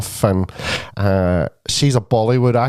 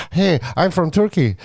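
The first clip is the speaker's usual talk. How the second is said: higher-pitched, excitable retold voice; retold excitable greeting, pitched up; excitable man; 5 semitones higher than usual. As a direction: imitate an eager stranger introducing himself. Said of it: "he was real excitable".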